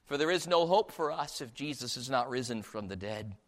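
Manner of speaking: ordinary talk, nothing marked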